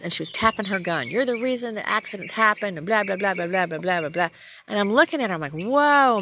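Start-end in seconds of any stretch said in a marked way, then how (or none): 1.1-4.3 mock scolding rant, starting high. Rookie cop blaming the driver, ranting on and on. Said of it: "She was going on and on". 5.5-6.2 high, loud "whoa"; startled protest. Retold or imitated. Driver to officer in her face, startled protest.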